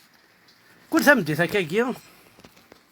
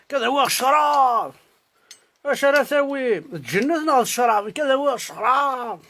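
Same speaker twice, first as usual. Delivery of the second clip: mock recitation; 3 semitones higher than usual. Drinker riffing on what to do, mock recitation. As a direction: recite it like a silly refrain, lifting each question. Recites repeated mock refrain with drawn-out line ends.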